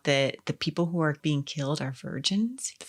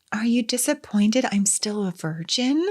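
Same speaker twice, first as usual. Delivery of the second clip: higher-pitched questioning quote; imitated daughter asking dad, pitched up; retold daughter; 6 semitones higher than usual. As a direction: lift it into a pointed question. Voicing daughter's creepy question to dad.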